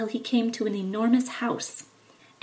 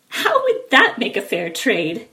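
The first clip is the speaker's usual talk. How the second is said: louder, indignant question; exclaiming; 7 dB louder than usual. Acted. Jack protests the old man's offer, exclaiming. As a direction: protest the bad bargain. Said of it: "exclaimed Jack".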